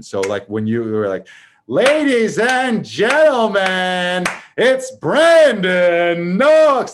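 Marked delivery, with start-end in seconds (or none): 1.7-6.9 slow booming announcer intro; game show announcer. Retold or imitated. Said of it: "Like it was a game show".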